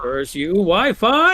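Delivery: loud mock-dramatic curse, rising high; mock cursing. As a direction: shake a fist at fate in a hammed-up shout. Mock cursing the bad connection.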